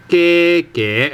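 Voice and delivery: 嘅 said in Cantonese second tone, rising. Shown as a demonstration. Teacher showing learners the particle, 嘅 in rising second tone. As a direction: give 嘅 a clear rising second tone. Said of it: "a second tone".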